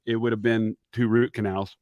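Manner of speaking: half-numb mouth, lip held up; numb from the dentist. Real, not acted. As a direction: talk with a numbed face. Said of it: "this side of my face is numb".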